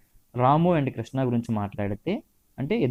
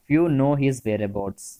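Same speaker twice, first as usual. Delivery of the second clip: slow dictation; much slower than usual. Shown as a demonstration. Teacher dictating example sentence.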